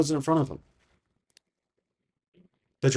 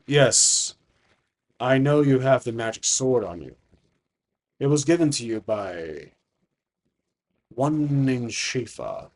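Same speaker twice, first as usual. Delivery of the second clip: lightly voiced, measured dragon; slow right down on the name, as a knowing dragon; ancient dragon; slower than usual. Dragon telling who gave the sword, measured and knowing.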